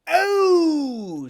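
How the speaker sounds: high, loud cry of surprise; loud startled oh. Acted. Silver startled by the letter, loud high cry. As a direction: jump at the letter. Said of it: "quite loud".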